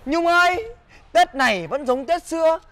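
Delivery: slow, lilting courting rhyme; flirty verse recital. Acted. Man wooing Nhung with a Tết rhyme, flirty recital. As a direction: recite it sweetly, drawing out the lines.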